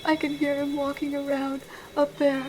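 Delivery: slow, halting, frightened speech; barely daring to speak as you listen; hushed dread. Acted. Trapped caller hears footsteps upstairs in her house, hushed dread.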